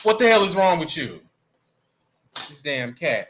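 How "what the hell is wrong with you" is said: higher, fast scolding; yelling at cat. Real, not acted. Streamer scolding the pet cat, quick raised-voice yelling. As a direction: tell off the cat in exasperation. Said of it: "I'm yelling at the cat".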